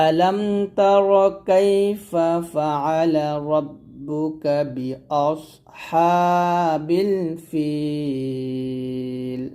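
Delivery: slow melodic recitation, rising on the openings; Quran recitation. Shown as a demonstration. Teacher reciting the verse for students to repeat. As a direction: recite the verse slowly, chanting. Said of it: "আয়াতটা আমার সাথে পড়েন".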